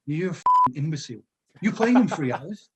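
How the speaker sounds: lightly acted exasperated reprimand; mock manager's scolding. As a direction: imitate a manager berating his player. Manager berating player over fizzy drink.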